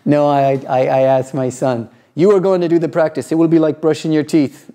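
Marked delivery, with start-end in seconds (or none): 2.1-4.7 solemn teacher's pronouncement, a bit quick; guru voice. Retold or imitated. Father to young son, lightly mimicking an Indian guru. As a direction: lay down the rule like an Indian yoga master. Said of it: "I spoke like this because that's how you speak".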